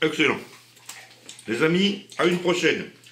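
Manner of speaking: speaking with a full mouth. Signing off to friends after tasting something, talking with mouth full. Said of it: "je parle la bouche pleine".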